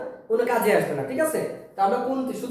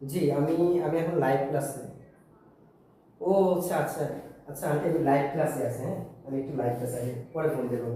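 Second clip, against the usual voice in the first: hushed phone voice, much softer and lower; whispering on the phone; 7 semitones lower, 6 dB quieter than usual. Real, not acted. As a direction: keep it down, class is listening. Phone call during live class.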